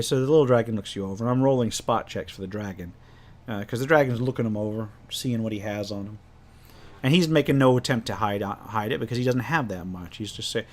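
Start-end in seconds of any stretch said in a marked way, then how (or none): none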